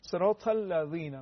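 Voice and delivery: slow "الذین" with a thin ذ, tongue tip at upper teeth; thin, light dhal. Shown as a demonstration. Teacher making it easy, thin dhal in "الذین". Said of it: "خیلی صدای نازک و کم حجم".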